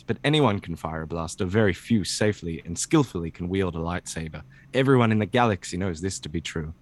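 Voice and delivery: lightly voiced Obi-Wan, measured and steady; a hint of Alec Guinness Obi-Wan; Obi-Wan reading voice. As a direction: read it like old Ben Kenobi, calm and wise. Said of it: "what is Obi-Wan's voice again".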